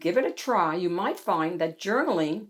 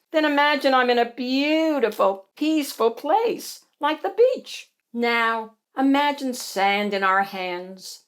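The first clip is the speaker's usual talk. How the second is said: guided imagining; 5 semitones higher than usual. Acted. Bonnie guiding Hattie to an imagined beach, dreamy delivery. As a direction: linger on the pictures to soothe.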